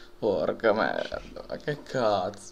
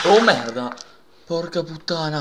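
explosive italian cursing; 6 semitones higher, 10 dB louder than usual. Real, not acted. Jump scare in horror game.

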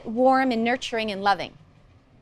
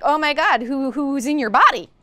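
weirded-out parent; 4 dB louder than usual. Retold or imitated. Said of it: "They'd be weirded out".

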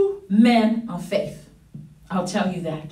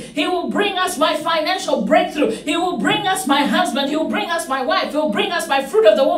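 building preacher's litany. Real, not acted. Preacher promising blessings to congregation, building litany. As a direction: pile up each promise, then peak.

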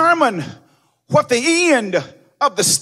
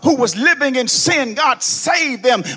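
loud, sung whooping sermon cadence; black church whoop, building and loud; preaching at full force; 3 dB louder than usual. Acted. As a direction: ride the organ with a chanting preacher's cry. Preacher tuning again with organ.

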